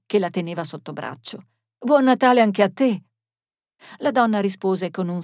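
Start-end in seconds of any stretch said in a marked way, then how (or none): 1.8-3.0 louder, higher cheerful well-wishing; raised, sociable greeting; hearty greeting. Acted. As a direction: call out a friendly Christmas wish. Marisa turns to greet younger woman.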